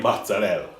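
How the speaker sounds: mocking Italian-style MOZZARELLA, no final vowel; put-on "mozzarella" ending on "rell"; super-serious pronunciation. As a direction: say MOZZARELLA as "motza-RELL", affectedly. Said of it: "they pronounce everything super serious".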